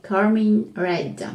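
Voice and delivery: slow, careful English accent on Carmine Red. Shown as a demonstration. Naming the polish for viewers, in a mild English accent. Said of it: "Avec l'accent anglais".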